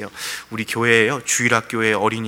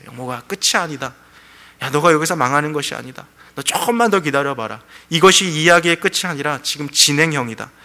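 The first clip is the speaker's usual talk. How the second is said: building to a loud, higher-pitched assurance; voice of the Lord; 4 semitones higher, 4 dB louder than usual. Acted. Preacher voices God telling a despairing believer it's not over, building insistence. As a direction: voice the Lord's promise with growing force. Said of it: "주님 말씀하시는 그 음성이 있는 거죠".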